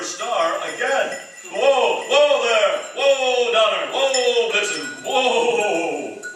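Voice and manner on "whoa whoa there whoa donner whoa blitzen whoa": loud drawn-out whoas to the reindeer; calling whoa. Acted. Santa halting his reindeer with loud whoas. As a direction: rein them in with big calls.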